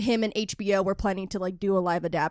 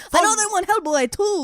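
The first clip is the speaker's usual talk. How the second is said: higher, hammed-up Mexican accent pitch; Guillermo del Toro; 9 semitones higher, 4 dB louder than usual. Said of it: "I'm Guillermo del Toro".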